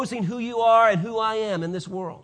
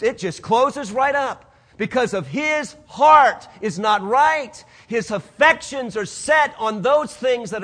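preaching shout; 2 semitones higher, 4 dB louder than usual. Real, not acted. Preaching climax.

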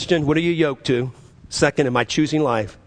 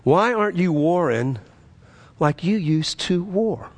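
pressing question, slowing at the end; God's question repeated. Retold or imitated. God asking the preacher once more, pointed and insistent. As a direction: press it home, drawing out the last words. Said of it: "and God asked me a question".

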